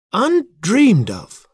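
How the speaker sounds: high, drawn-out cry of dismay; dainty dismay. A narrator's reading. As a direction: exclaim it high and loud, daintily appalled. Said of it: "throwing up her hands in dainty dismay".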